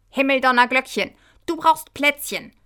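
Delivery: high, loud, urgent outburst; alarmed exclamation. Acted. Michi sees Kahit is dizzy, urgent exclamation.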